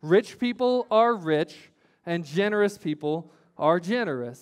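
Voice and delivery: deliberate call to say it together; leading a recitation. Shown as a demonstration. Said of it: "so say that with me".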